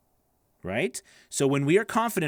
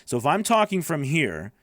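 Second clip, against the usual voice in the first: booming voice; 4 dB louder than usual. Shown as a demonstration. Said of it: "it sounds just more booming".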